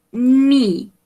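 "knee" said as "nee", drawn out; silent K pronunciation. Shown as a demonstration. Teacher showing students the pronunciation, "knee" with silent K. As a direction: say "knee" starting straight on the N. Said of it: "The pronunciation of this one is".

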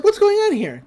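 very high, alarmed squeak; startled Mabel. Retold or imitated. Mabel discovers the machine.

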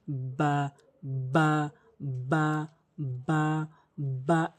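বা with both lips pressed together; বা repeated slowly for imitation; Arabic letter ba. Shown as a demonstration. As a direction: model বা from moist lips meeting. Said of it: "এভাবে উচ্চারণ করবেন".

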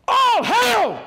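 high, loud joyful shout; shouted greeting. Acted. Jesus greets the three women, shouting with joy. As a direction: fling it out like a herald's cry. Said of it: "The Bible says he shouted it".

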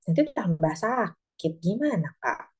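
slow, gentle asking; a touch of tender concern; gentle question. Retold or imitated. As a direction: coax the child slowly. Parent gently asking child.

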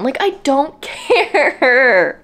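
drawn out slowly with a laugh, fed up; slow, laughing, exasperated I don't care. Real, not acted. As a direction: drag out how little you care. Venting about boring book plot.

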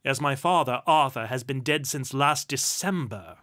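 loud, dry statement of fact; stern, unsentimental duke; dry correction. A narrator's reading. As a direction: correct them drily and firmly. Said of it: "Rupert stated dryly".

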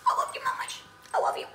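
high, loud whimpering I love you; whiny crying. Acted. Dog voice whimpers its love to mama loudly. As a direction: whine it like a pleading pup.

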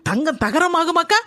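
daughter-in-law staging loud praise for the eavesdropping mother-in-law; praise for eavesdropper. Acted. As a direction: say it loud so the one behind the door hears. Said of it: "ஒட்டு கேக்கா போல இருக்கு".

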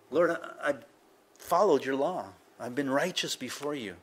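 imitating a tearful prayer, pitched slightly up; mock tearful pleading. Preacher voices ailing king praying to God, mildly tearful pleading. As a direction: plead like a crying man, lightly acted. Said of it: "A-, and he's crying".

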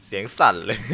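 เสียงสั่นหลังตกใจ; shaky voice. Real, not acted. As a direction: voice trembling after the scare.

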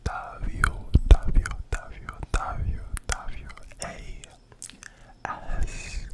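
letters spelled out slowly. Shown as a demonstration. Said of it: "my Instagram is".

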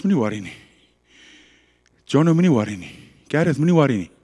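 calm, comforting dad; still small voice. Acted. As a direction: reassure gently, with pauses between phrases. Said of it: "that still small voice".

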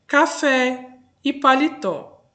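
"café e paletó" slowly, each word stressed on its last syllable; slow, spaced demo of "café e paletó", endings stressed; stress on final syllables. Shown as a demonstration. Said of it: "Porque tem a sílaba mais forte na última".

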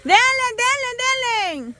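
cheering on. Real, not acted. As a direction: egg the player on. Host cheers player on.

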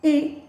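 "a" said eh, as in elbow; short E sound. Shown as a demonstration. Teacher shows learners short E, "a" said eh. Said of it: "The short sound of E".

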